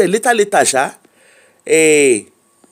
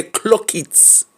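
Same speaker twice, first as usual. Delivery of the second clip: softer, dropped-voice "clock it"; Gen Z catchphrase; 3 semitones higher, 6 dB quieter than usual. Retold or imitated. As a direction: toss off "clock it" softly like a Gen Z kid. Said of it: "Na one Gen Z go hear".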